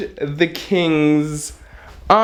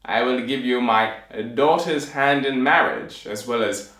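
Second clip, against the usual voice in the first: pompous king. Acted. King setting the tailor a task to kill giants, pompous. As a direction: proclaim grandly with weighty pauses. Plays the king offering reward.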